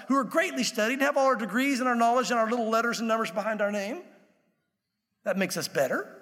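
mildly indignant, mounting list of credentials; angry Pharisees. Acted. Religious leaders challenging Jesus, mildly angry and affronted. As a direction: build the affronted question, punching the boasts. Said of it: "I know they said it angrily".

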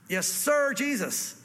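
lightly voiced soldier's reply; obedient soldier. Universe answering Jesus, mock-military obedience. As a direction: answer high, like a recruit to an officer.

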